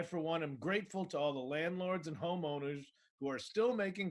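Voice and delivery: deadpan mock gratitude; understated sarcasm in an earnest reading voice; sarcastic post reading. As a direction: read it out as a solemn, insincere tribute. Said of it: "I put up a sarcastic post".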